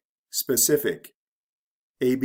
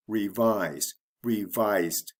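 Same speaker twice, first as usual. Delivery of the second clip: re-VISE, re-VISED, same falling stress on both; unchanged stress; slower than usual. Shown as a demonstration. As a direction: keep revise and revised stressed on the second syllable. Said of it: "The stress does not change".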